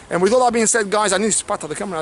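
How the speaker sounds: rapid, tumbling chatter; really hurried delivery; talking too fast. Real, not acted. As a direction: rattle it off in a rush. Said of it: "I'm talking too fast".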